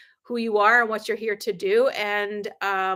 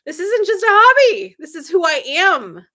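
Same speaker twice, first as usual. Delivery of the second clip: loud, emphatic, louder in bursts; firm declaration; 3 semitones higher, 4 dB louder than usual. Retold or imitated. Telling her husband where she stands, in a loud emphatic voice. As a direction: lay down the law with total conviction.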